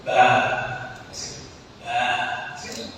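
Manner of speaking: low, breathy imitation of a goat's bleat. The preacher imitates the possessed young man bleating like a goat. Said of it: "Como si fuera una cabra".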